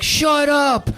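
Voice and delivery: high, loud, drawn-out heckle; yelling. Retold or imitated. Guy live streaming and yelling at band, angry holler. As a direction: holler it furiously over the music. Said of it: "yelling at them".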